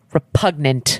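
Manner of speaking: "repugnant" ending on a crisp, sounded T; hard final T. Shown as a demonstration. Co-host showing off the word's ending, hard T on "repugnant". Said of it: "that hard T at the end".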